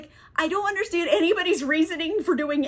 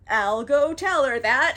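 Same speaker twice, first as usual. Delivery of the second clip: laughing mock Silvius; 6 dB louder than usual. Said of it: "Sylvia's is like".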